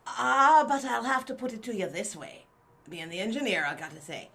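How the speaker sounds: bad stage Irish accent. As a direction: lay on a thick Irish lilt. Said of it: "do not do good, uh, Irish accents".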